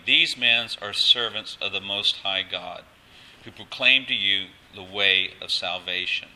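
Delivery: mildly loud, measured proclaiming; retold loud proclamation. Preacher quoting the slave girl's cry, loud but measured. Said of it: "She's saying it very loudly".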